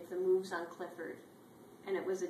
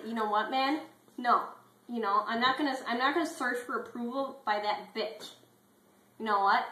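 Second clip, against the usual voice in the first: mock rant; 4 semitones higher, 6 dB louder than usual. T-Bone rants about approval.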